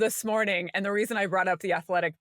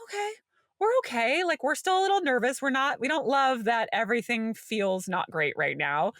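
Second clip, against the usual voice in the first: reassuring inner voice; 4 semitones higher than usual. Retold or imitated. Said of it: "My nervous system is like".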